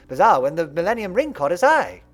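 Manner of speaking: lightly put-on English accent as Bakura; a hint of a posh English boy; English accent, gentle and polite; fake English accent. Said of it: "his fake English accent".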